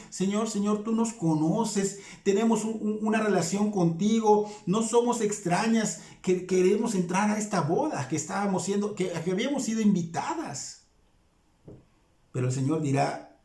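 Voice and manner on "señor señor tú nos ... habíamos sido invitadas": higher, urgent begging to be recognised; desperate, insistent, higher; insistent desperate plea. Retold or imitated. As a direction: plead as one locked out of the wedding. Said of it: "muestra insistencia, muestra desesperación".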